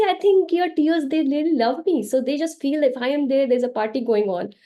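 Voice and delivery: put-on high, playful teasing to cheer a child up; playful coaxing. Mother teasing her crying daughter out of tears, high and playful. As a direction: lift the pitch and tease her gently.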